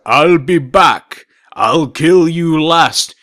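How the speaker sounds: slow, low action-hero growl; lightly imitating a movie villain; movie quote impression. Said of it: "I'd rather speak in movie quotes like".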